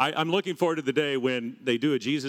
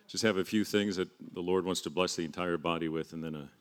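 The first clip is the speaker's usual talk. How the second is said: put-on slipping into a lower, softer English accent; 6 semitones lower, 7 dB quieter than usual. Preacher introducing a few things, slipping into English accent. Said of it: "I'm talking in an English accent".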